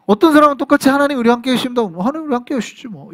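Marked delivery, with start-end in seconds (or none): 1.8-3.1 a dismissive shrug in the voice, trailing off softer; shrugging, indifferent. Shown as a demonstration. Preacher mocking an unmoved listener, offhand and dismissive. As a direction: toss it off as if it means nothing. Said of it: "이렇게 끝나는데".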